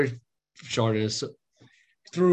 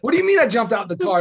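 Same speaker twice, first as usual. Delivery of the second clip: mock confused wife; 8 semitones higher, 5 dB louder, faster than usual. Wife confused about falling.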